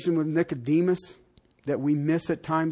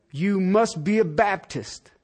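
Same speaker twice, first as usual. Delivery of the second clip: wrong answer, deadpan joke; slower than usual. Shown as a demonstration.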